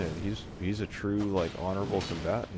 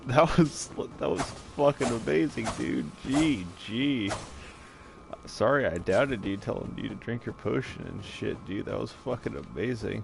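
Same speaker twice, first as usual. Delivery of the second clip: frat bro. Real, not acted. Hyped after a great win.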